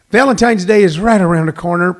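booming AM radio host. Acted. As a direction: pitch it like a radio ad. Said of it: "if I don't sound like a A M radio talk show host".

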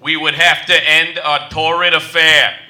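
a light English accent, lightly put on; English butler accent. Butler to maid about their affair, English accent. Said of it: "I'm doing an accent now".

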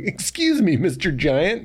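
high polite fan voice; squeaky fan asking; timid fan. Retold or imitated. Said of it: "someone could be like".

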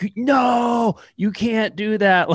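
high, slow mock scold; shrill put-on naysayer voice; mocking old-school purist. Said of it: "I was like".

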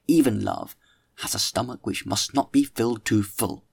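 lightly declaimed dinner-table oration; mildly theatrical literary speechifying; orator's speech. Acted. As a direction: hold forth to the company, with measured rhetorical emphasis. Reads the orator's long speech.

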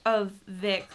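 talking through a mouthful of chocolate; mouth full. Real, not acted. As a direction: speak around a bite of food. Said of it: "talking with food in my mouth".

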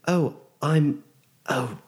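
halting, blurted false starts; flustered stammer. Acted. Nervous new mage asked for a name, flustered. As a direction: fumble for your own name, flustered.

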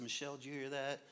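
soft, whispered nighttime question; husband whispering to wife at night, softly; hushed whisper. Retold or imitated. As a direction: whisper to your wife in bed. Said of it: "I said".

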